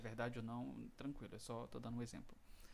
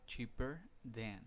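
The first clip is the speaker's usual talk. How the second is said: slow model phrase; much slower than usual. Shown as a demonstration. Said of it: "No comparativo".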